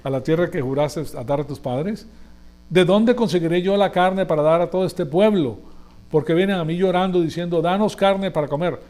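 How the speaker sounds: desperate leader arguing with God; Moses' exasperated complaint. Acted. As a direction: cry out in frustration at the burden. Moses complaining to God, read aloud.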